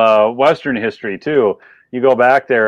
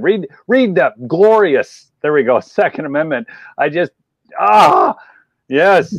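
higher-pitched, heated rant; worked up; 4 semitones higher than usual. Real, not acted. Guest ranting about the hunting argument, worked up and higher. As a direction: get fired up defending the point. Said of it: "I got a little worked up there".

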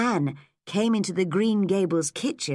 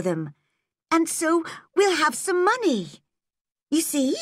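put-on higher, bright girl's voice, earnest and hopeful; eager young Anne; 7 semitones higher than usual. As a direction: plead with Marilla as a determined young girl. Anne's voice, girl pleading plan.

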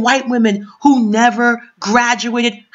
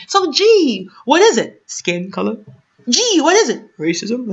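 sarcastic. Real, not acted. Sarcastic rhetorical questions.

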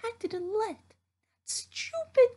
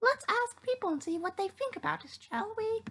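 news anchor. Acted. News anchor reads the report.

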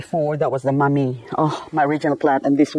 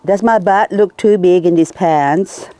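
imitating the wife; 3 semitones higher than usual. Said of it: "my wife asked me".

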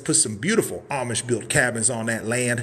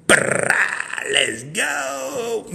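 higher, shouted let's go; hype shout; 8 semitones higher, much slower than usual. Real, not acted. Host pumping up viewers with a shouted let's go.

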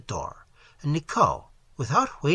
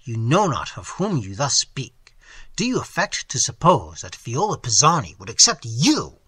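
between his teeth; 5 dB louder than usual. Acted. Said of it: "said Glyndon between his teeth".

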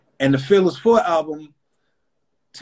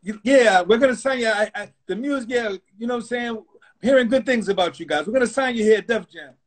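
pushy exec; 6 semitones higher than usual. Retold or imitated. Leo pushing the signing.

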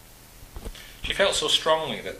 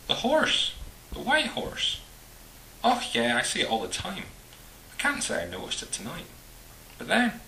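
excited Highland Scottish man, pitched up; Highland Scottish accent; 9 semitones higher, 3 dB louder than usual. Acted. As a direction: exclaim it with a Highland burr. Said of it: "his voice betrayed the unmistakable burr of the Highlands".

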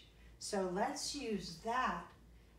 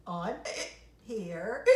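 hiccup. Acted. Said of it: "hiccuped the pelican".

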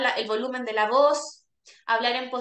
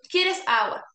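louder repeat; 6 semitones higher, slower than usual. Shown as a demonstration. Therapist repeating "¿Quieres agua?" louder to a patient.

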